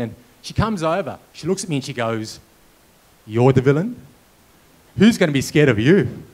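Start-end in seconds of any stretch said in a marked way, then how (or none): 3.3-6.2 mocking disbelief. Assistant doubting the villain.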